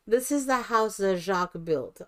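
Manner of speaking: "Jack" turned into mock-French "Jacques"; mixed foreign accent. Announcing the show to residents, mixed foreign accent. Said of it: "my accent is a cross between".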